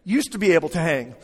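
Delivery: "Used to" leaned on at the start; stress on USED TO. Shown as a demonstration. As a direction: put the weight on "Used to". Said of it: "that emphasis on the word used to".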